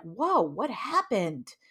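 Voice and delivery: stretched-out, bewildered whoa; slow baffled reaction; startled kid. Retold or imitated. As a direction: draw it out, stunned, as a confused child. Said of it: "the kid is like".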